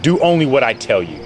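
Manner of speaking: commanding God voice. Retold or imitated. Devil voices God's commands.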